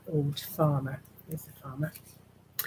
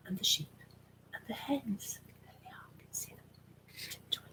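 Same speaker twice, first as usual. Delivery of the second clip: hushed creeping whisper; sneaky whisper; 9 dB quieter than usual. A narrator's reading. Reading the sneaking-in part to children, whispered. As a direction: whisper like tiptoeing past a sleeping farmer.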